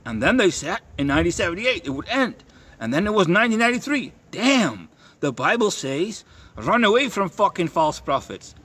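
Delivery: high, insistent mock preaching at a stranger; preachy confrontation. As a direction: lecture the old lady, pitch up. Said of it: "I'm starting to talk like this".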